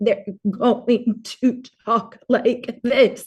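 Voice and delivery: slow, choppy, broken, halting, spasm-like delivery. Explaining how patients with vocal spasms talk; choppy speech. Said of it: "it's kind of choppy".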